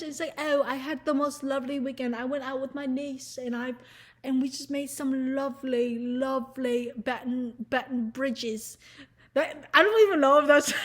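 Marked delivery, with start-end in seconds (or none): 0.4-8.8 prim British. Retold or imitated. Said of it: "prim and proper British people".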